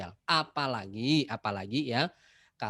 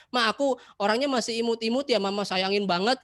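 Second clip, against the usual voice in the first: put-on cutesy child; 9 semitones higher, 4 dB louder than usual. Anak manja bermanja pada mama.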